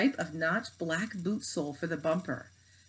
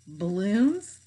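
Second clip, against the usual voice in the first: mock reading; 5 semitones higher, 6 dB louder, much slower than usual. A narrator's reading. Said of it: "she read".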